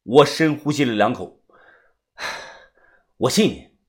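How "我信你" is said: soft, low reassurance; calm, subdued trust; quiet sincerity. A narrator's reading. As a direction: say it gently and low.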